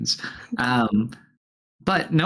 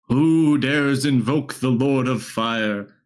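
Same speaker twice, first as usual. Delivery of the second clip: booming demon lord; 3 semitones higher, slower than usual. Acted. GM voices the fire lord.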